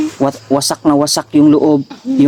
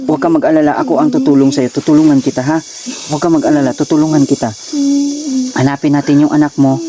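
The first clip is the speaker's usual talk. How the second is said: calm, lowered reassuring voice; gentle reassurance; 3 semitones lower than usual. Acted. Rescuer promises help to a worried parent, gentle reassurance. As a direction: settle them down with a steady promise.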